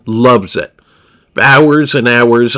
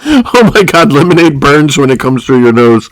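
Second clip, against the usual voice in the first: mock ASMR; 5 dB louder than usual. Shown as a demonstration. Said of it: "Here's an A M S R for you".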